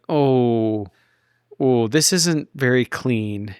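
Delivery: slow, dismayed oh; mock distaste. Visitor arriving in Toronto, mock dismay. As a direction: draw it out in mild mock disgust.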